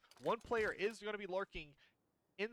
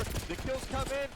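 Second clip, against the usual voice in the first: excited; 5 semitones higher than usual. Real, not acted. Caster calls the deciding final fight.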